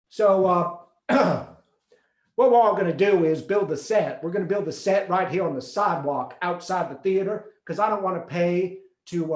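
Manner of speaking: a lightly voiced brash producer giving orders; hint of a cowboy boss; urban cowboy producer. Producer bossing the cast on the sidewalk, lightly voiced. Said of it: "He was an urban cowboy".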